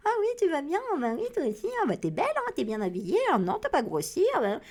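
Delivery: high, sugary mock compliments; fake flattering friend. Mocking a fake friend's compliments, high sugary mimicry. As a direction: mimic a two-faced friend gushing. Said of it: "c'est facile d'être faux cul".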